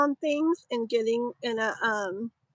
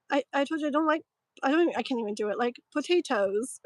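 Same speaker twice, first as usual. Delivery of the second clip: mum lightly imitating a British accent; a light, playful British accent, quoting her son; mock British accent; much faster than usual. Mother quoting her nine-year-old son in a mild British accent. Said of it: "with a British accent".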